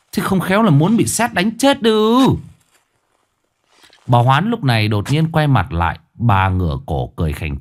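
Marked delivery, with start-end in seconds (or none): 0.1-2.3 mild scolding shout. Acted. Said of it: "ông lôi ngược bà Hoán lại rồi quát".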